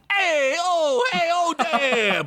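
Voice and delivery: gruff orc bellow; orc shout into dark. Acted. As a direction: holler into the dark warehouse. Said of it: "Blimp shouted into the darkness".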